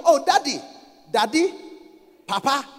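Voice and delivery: lightly acted sweet-talk to the leader; mock fawning address. Members in front of their pastor, mock fawning. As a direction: address him with put-on devotion, tone lifting. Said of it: "When they are in front of you".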